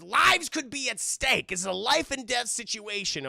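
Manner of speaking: acted earnest insistence; urgent pleading. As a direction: press the gravity in a mock-dramatic plea. Sassy pleads urgency to mourner.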